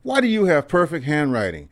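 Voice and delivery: high, loud, wide-eyed curiosity; amazed question. Retold or imitated. Boy asking the old veteran, high and amazed. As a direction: ask it like a kid who can't believe it. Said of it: "I said".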